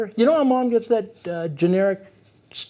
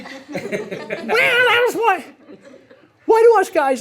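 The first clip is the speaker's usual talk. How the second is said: laughing; 11 semitones higher, much slower than usual. Real, not acted. Laughing, high mock voice.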